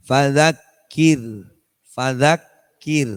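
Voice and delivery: fadzakir slow, with the R light and thin; light R demo. Shown as a demonstration. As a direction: say fadzakir with a thin, barely trilled R. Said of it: "dibaca tarqiq itu".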